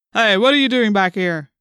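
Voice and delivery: loud, challenging policeman; demanding policeman. A narrator's reading. Policeman catching Cassie behind the dune, demanding. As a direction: demand an answer with authority. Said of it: "the policeman demanded".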